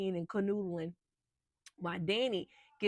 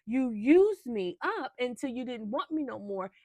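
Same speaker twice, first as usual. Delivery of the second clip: indignant outburst; 4 semitones higher, 5 dB louder than usual. Retold or imitated. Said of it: "She was like".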